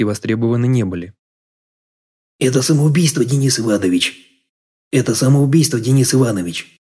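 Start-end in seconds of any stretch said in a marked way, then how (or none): 2.4-6.8 stunned protest. A narrator's reading. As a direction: protest in mild shock, as a narrator voicing a guest. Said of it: "Ошеломлённо посмотрел на него Нобель". (ошеломлённый протест)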